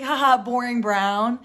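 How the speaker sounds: loud mock chuckle; fake-laugh it off like Sam. Sam playing off his insult with a loud fake laugh. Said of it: "He's like".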